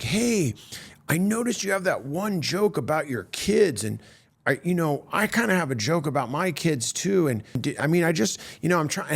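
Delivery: lightly voiced impression, hesitant and halting; a hint of a famous sitcom comic's awkward, stumbling talk; Ray Romano. Star comic raises an overlapping kids joke, light Ray Romano impression. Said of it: "in that Ray Romano voice".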